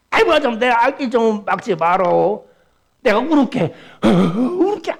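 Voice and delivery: mock pleading. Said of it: "귀신한테".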